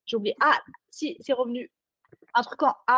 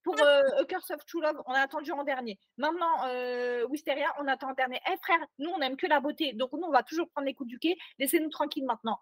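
mock rant; 5 semitones higher than usual. Real, not acted. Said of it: "coup de gueule".

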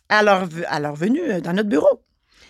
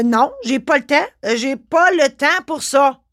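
higher, louder, slowing on the second line; enraged refusal; 4 semitones higher, 4 dB louder than usual. Retold or imitated. Notary tells the inspector she has no time, enraged. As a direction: refuse him, furious and spiteful. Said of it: "Enragé".

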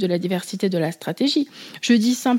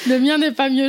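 laughs through the words, pitched up a little; a giggly reply to a friend's joke; laughing; 4 semitones higher, 3 dB louder than usual. Real, not acted. Laughing, reassures her friend about her own accent.

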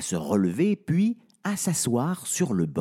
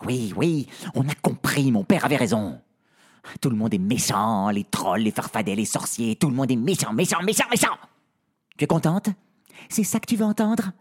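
furious outburst; faster than usual. Acted. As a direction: lash out at the servant mockingly. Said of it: "les foudres de sa maîtresse".

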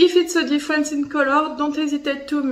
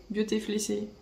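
softer, lower self-check; quiet repeat; 3 semitones lower, 9 dB quieter, faster than usual. Shown as a demonstration. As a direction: mutter the words back to yourself. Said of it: "I'm not sure it exists".

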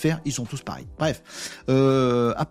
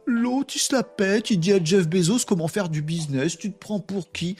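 commentateur moqueur; 5 semitones higher than usual. Retold or imitated. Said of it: "on va me dire dans les commentaires".

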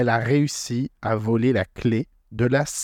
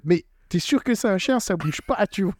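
higher, playful voice of a curious Luffy; voicing Luffy; 7 semitones higher than usual. Retelling the manga to a friend, as a playful high-pitched Luffy. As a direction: poke fun as a clueless Luffy checking the dog. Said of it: "Luffy ... en mode".

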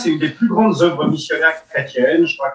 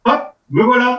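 cheerful entrance; 7 semitones higher than usual. Real, not acted. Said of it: "on dirait Jamy".

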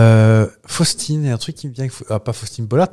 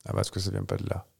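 voix bizarre; 6 semitones lower, 14 dB quieter, faster than usual. Real, not acted. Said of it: "Mais pourquoi je parle comme ça".

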